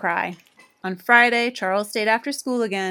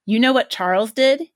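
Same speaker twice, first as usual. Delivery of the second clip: demanding; 3 semitones higher, 7 dB louder than usual. A narrator's reading. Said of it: "he demanded".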